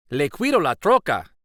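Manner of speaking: with a smile. Acted. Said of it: "he says with a smile".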